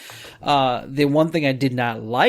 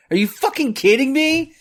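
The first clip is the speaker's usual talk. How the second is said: real exasperation; 11 semitones higher than usual. Real, not acted. Ranting at the politician.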